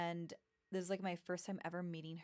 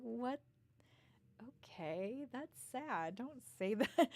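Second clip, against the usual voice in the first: laughing; 5 semitones higher, slower than usual. Retold or imitated. Reacting to child again, laughing.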